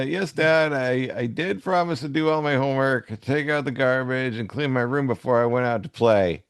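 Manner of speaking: lightly voiced kid; a hint of a pleading youngster; child pleading. Co-host reading the childhood side, a hint of a kid pleading. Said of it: "I'll do the childhood".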